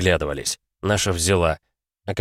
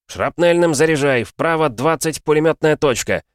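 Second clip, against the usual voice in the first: loud, high urgent orders; shouted fire commands; 8 semitones higher, 4 dB louder than usual. Acted. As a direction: yell the orders over the cannon. Commander calls target in battle.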